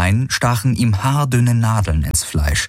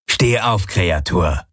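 barked command; slower than usual. A narrator's reading. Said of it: "herrschte Knochenfresse ihn ... an".

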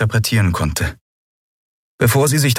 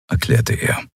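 ordinary delivery, nothing marked

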